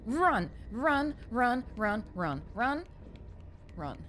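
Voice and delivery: urgent chant of run; being chased. Real, not acted. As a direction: urge yourself on.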